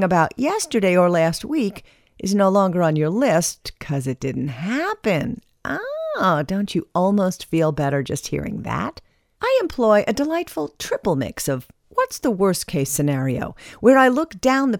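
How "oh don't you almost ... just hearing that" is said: a sudden high, hammed-up "oh"; mock surprise. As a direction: leap up in pitch as if amazed. Mock wonder at own advice.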